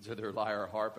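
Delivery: ordinary talk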